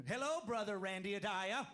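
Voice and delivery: hammed-up pious hello; mock Amish at dinner, slow and formal; Amish greeting. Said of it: "pretend ... they end every first name with Adaya".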